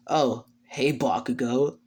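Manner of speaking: understated snark; unimpressed, lightly sarcastic hello; snarky greeting. Acted. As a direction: greet a rival with faint disdain. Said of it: "snarky tone".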